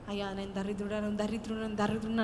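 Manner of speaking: soft, sighing self-pity; mock complaint of the poor; mock lament. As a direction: whine it like a beggar. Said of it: "అంటే దరిద్రం వదిలే వెళ్ళిపోదు".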